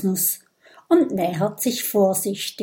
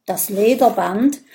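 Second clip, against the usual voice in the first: louder, mildly shaky telling; trembling voice; 2 semitones higher, 6 dB louder than usual. Acted. Viking tells how the horn vanished, mildly trembling. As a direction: report it with a quaver of grief. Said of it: "Mit bebender Stimme berichtet er".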